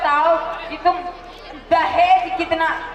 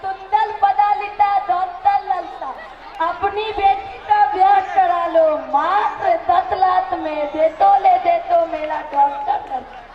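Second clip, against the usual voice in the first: mock vendor call. Father hawks son like vendor.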